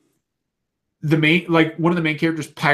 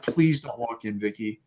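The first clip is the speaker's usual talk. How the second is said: hushed plea; 5 semitones lower, 8 dB quieter than usual. Retold or imitated. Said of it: "and I'm like".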